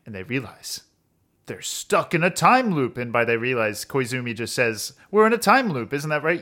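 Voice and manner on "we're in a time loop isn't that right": lightly acted confident declaration, higher and louder; mock know-it-all announcing the answer; confident announcement. A character tells the group about the loop, lightly acted confidence. Acts out Koizumi's sudden announcement.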